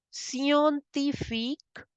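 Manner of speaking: Scientifique drawn out slowly for learners; slow it right down; slow and clear. Shown as a demonstration. Teacher slowly repeats scientifique for class. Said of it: "you pronounce it as".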